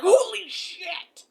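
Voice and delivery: a loud, slow, stunned "Holy shit!"; stunned exclamation. Retold or imitated. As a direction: act out a man blown away by her. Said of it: "and he's like".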